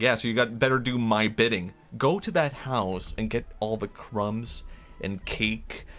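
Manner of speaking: bossy threat. Acted. Worm threatens the ants.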